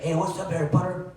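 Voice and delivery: put-on high-pitched Latino-accented greeting; casual hello in a put-on Latino accent; imitated Latino accent. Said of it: "I apologize for the accent".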